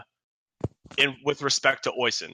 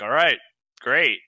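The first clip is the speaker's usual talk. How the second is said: louder, scoffing dismissal; 3 semitones higher, 5 dB louder than usual. Acted. Guard brushing off the adventurer's boast, scoffing. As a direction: scoff at it in short words. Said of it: "like, scoffs".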